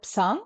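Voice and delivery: psang with the P sounded before the S; sounded prefix P. Shown as a demonstration. Teacher asks why not this, psang with its prefix P voiced. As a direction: start psang on an audible P. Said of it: "why don't we pronounce it".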